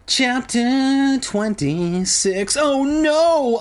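high, hammed-up moan of dread; overdone despairing moan; mock moan. A narrator's reading. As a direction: wail it out slowly in dismay. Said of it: "I moaned".

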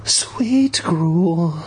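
adoring whisper. A narrator's reading. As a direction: croon it tenderly. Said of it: "I whispered".

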